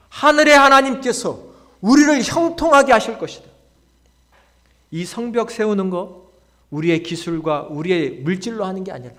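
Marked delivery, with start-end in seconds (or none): 0.1-3.5 high, loud pulpit proclamation; ringing preacher's declaration; declaration of faith. Acted. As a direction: proclaim it with total conviction. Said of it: "믿음의 언어죠".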